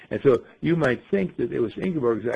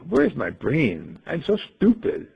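self scolding; slower than usual. Retold or imitated. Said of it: "And you say".

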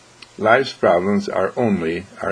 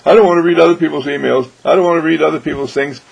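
mock dismissive reply; 5 semitones higher, 4 dB louder, faster than usual. Recipient refusing emails.

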